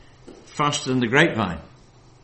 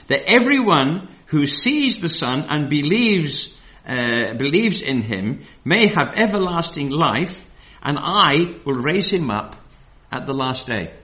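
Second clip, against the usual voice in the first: slow, louder scripture reading; 4 dB louder, slower than usual. Acted. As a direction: read the verse slowly and solemnly. Reads scripture aloud.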